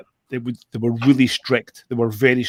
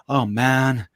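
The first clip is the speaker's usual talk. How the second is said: lightly voiced American accent; mock a laid-back American pilot, loosely; American pilot impression; slower than usual. Drone show organiser imitating the helicopter pilot, rough American accent. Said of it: "it's my worst impression of him".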